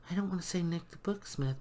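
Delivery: quick hushed aside; whisper. Real, not acted. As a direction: whisper it like a secret. Hushed aside while unsure.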